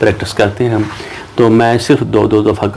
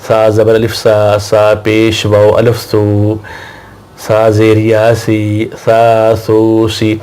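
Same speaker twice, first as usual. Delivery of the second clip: slow syllable drill; much slower than usual. Shown as a demonstration. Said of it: "پھر سنیں،".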